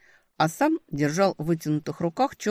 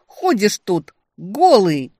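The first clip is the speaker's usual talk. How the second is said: much louder, slow, higher outraged cry; scandalised shout; 5 semitones higher, 11 dB louder, slower than usual. A narrator's reading. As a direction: shriek the last charge at him. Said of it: "ещё громче крик".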